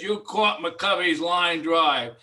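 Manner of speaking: loud, drawn-out retold accusation; mock accusation. Fan confronting Richardson at lunch, loud mock accusation. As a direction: recount it loudly, stretching the words.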